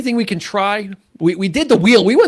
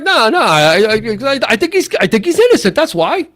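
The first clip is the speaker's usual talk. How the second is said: a hint of an excited juror, fast; lightly voiced insistent juror; Jack Warden impression; 4 semitones higher, 3 dB louder than usual. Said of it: "or, or Jack Warden".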